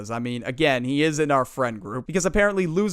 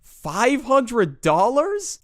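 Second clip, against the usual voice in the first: shocked; 8 semitones higher, 3 dB louder, much slower than usual. Retold or imitated. Friends shocked by amount.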